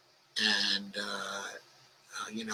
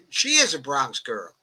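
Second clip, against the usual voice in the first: laughing repeat. Real, not acted. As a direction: say it again, amused, at normal level.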